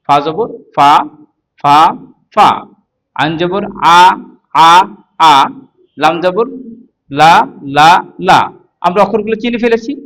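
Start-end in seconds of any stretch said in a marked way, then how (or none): 0.1-8.4 measured syllable-by-syllable spelling chant; recitation drill. Shown as a demonstration. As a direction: sound out each syllable, pausing for repetition. Spelling drill for Quran reading.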